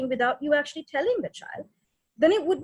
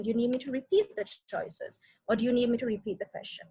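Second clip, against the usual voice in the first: calm tones; 4 dB quieter than usual. Shown as a demonstration. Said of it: "maintaining really calm sort of, um, tones".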